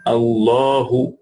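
"Allahu" with h from the bottom of the throat. Shown as a demonstration. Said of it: "bottom of throat".

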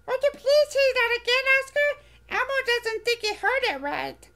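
high, bright little furry monster voice, eager; squeaky childlike monster, proud; Elmo voice. Acted. Elmo asks Oscar.

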